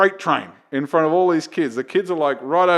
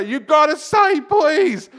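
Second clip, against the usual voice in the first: put-on high, loud childlike chant; kids' chorus; 6 dB louder, much slower than usual. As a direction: chant it like a class of six-year-olds. Kids answering in chorus.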